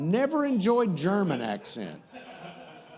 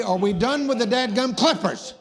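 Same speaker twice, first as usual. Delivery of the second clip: raised, higher, exasperated question; exasperated call; 4 semitones higher, 4 dB louder than usual. Real, not acted. Host to the barber over the clippers, exasperated.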